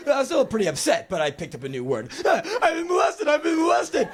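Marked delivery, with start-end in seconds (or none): 2.2-4.1 high, chirpy boasting; proud kid. Retold or imitated. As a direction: show off a new word like a present. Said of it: "I just start repeating it".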